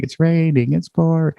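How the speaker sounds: lightly sung, a touch eerie; a hint of a creepy child chanting a rhyme; creepy little voice. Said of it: "that creepy little voice going".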